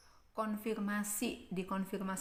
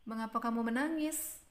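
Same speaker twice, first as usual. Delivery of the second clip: "menangis" raised as a question; rising question; 3 semitones higher, faster than usual. Shown as a demonstration. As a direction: question climbing through "menangis". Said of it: "nadanya Mem Ita di belakang meninggi".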